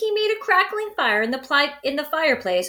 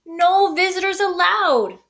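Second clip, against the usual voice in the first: sniffling; 8 semitones higher, 4 dB louder than usual. Acted. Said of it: "he sniffled".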